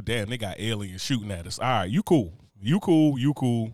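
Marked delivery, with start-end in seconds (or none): 1.6-3.7 mock sudden friends. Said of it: "it's like".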